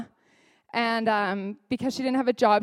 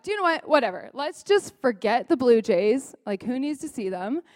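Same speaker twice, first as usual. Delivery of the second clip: exasperated, giving up on the plan; retold huff of "forget it"; frustrated. Mom dropping the Blue Jays outing, frustrated. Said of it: "I was just so frustrated".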